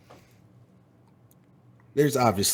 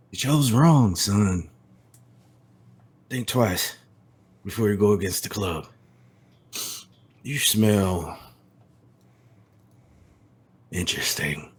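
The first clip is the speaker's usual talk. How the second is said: menacing vampire. Acted. Vampire threat in character.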